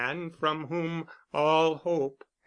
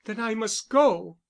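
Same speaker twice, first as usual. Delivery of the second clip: decisive; 6 semitones higher, 4 dB louder than usual. A narrator's reading. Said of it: "she said decisively".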